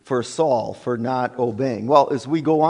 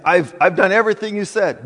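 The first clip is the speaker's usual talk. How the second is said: quick, higher-pitched mock self-justification; sanctimonious protest; 4 semitones higher, 3 dB louder, faster than usual. Saul insisting to Samuel he obeyed, hurried sanctimonious protest. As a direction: rush out a pious claim of obedience. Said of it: "right while he's saying".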